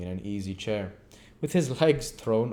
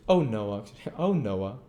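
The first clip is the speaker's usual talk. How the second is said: reproachful. Acted. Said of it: "cried Charlotte reproachfully".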